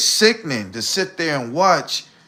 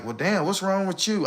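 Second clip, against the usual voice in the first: lightly mimicking a confused woman; half-hearted imitation of her asking; mock puzzled question; 4 semitones higher, 5 dB quieter than usual. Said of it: "be blindsided like".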